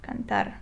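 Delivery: cantar repeated softly, stress on TAR; last syllable stressed. Shown as a demonstration. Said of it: "because this is the last syllable".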